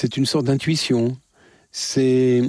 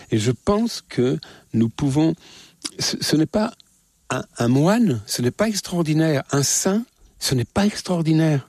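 getting carried away; 5 semitones higher than usual. Real, not acted. Answering the interviewer's question, carried away, higher excited voice. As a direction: voice climbing higher with fervour. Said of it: "Je m'exalte un peu en vous parlant".

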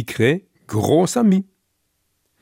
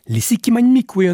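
quoted proclamation; 11 semitones higher, 4 dB louder, faster than usual. Retold or imitated. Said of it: "disent-ils".

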